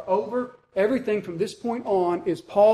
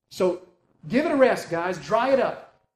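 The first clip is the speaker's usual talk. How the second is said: fed up. Acted. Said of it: "says Paul".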